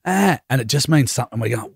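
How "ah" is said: put-on high short baby wails; imitating baby cry. Dad mimicking his crying newborn, high short wails. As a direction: echo the baby's little cries. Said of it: "So he's just going".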